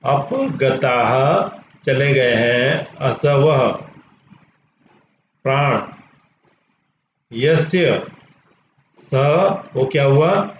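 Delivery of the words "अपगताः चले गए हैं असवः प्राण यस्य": slow, each part set apart with long pauses; teacher splitting a word. Shown as a demonstration. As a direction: break the compound into its pieces slowly. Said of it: "देखिए इसको कैसे शब्द".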